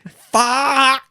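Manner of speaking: high, loud comic scream of an expletive; panicked koala yell. Acted. Friend acting a koala running from fire, high panicked yell. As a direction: yell it like a cartoon animal fleeing.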